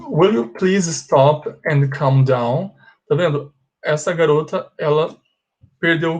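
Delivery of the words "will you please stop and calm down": slow reading. Shown as a demonstration. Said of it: "Seven diz assim".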